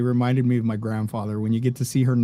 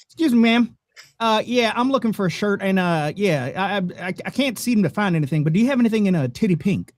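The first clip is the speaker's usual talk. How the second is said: grandpa's redneck twang; 4 semitones higher than usual. Retold or imitated. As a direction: play the Mexican grandpa with a country twang, politely asking the clerk. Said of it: "And he's like".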